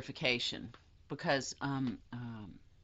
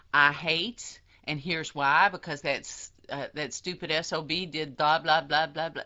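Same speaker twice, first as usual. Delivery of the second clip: mock rant; 4 dB louder than usual.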